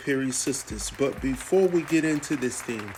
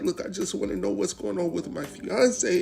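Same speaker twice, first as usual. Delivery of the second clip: imitating a man faking tearful distress, higher; whiny put-on sob story voice; mock fake tears; 5 semitones higher than usual. Recapper mocking Gary's fake crying to the detective. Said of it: "putting on fake tears".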